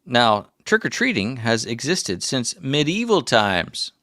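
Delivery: put-on slow old prospector telling fun facts. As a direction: draw it out like an old mountain man. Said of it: "by the old prospector".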